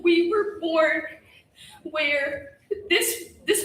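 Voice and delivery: crying through a shaky laugh; holding back sobs. Real, not acted. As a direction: voice breaking, fighting tears. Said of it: "I'm trying not to cry".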